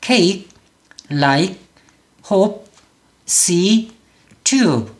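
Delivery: no vowel added after the last consonant of cake, like, hope; one-syllable English. Shown as a demonstration. Teacher models the corrected words, one syllable each. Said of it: "이렇게 이름절로 소리를 내라는 거".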